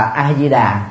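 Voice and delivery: A Di Đà said "a-zi-da"; Vietnamese pronunciation. Shown as a demonstration. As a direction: pronounce A Di Đà with a Vietnamese "zi". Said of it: "là đọc thành là". (A Di Đà đọc kiểu người Việt)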